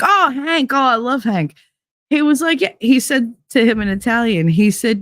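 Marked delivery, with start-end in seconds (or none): 0.0-1.5 delighted jeweler. Retold or imitated. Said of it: "He's like".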